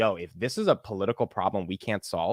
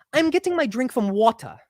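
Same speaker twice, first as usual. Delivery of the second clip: high-pitched put-on British accent; raised-voice British accent; 12 semitones higher, 3 dB louder than usual. Shown as a demonstration. Host shows raising his voice helps the accent, high British accent. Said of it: "when I raise my voice".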